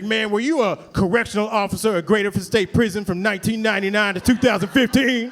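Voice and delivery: a hint of a laid-back older guy; casual, drawn-in uncle voice; lightly played street uncle; lightly voiced uncle. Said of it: "He's like".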